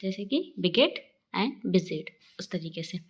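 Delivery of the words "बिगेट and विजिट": बिगेट and विजिट with a short 'i'; slowly, short 'i' in विजिट; short 'i' demo. Shown as a demonstration. Teacher giving examples of छोटे ई, short 'i' in बिगेट. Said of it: "छोटे ई से होता है".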